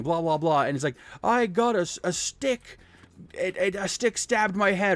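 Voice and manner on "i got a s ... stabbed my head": put-on high, whiny scared kid. Kid telling his mom about the stick, high and scared. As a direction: squeak it out like a frightened boy. Kid voiced in retold story.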